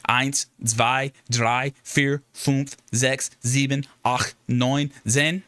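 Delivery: counts one to ten in German, each pair as a careful showpiece; counting in German. Shown as a demonstration. Streamer showing chat his German, counting in earnest German. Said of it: "How was, how was my German?".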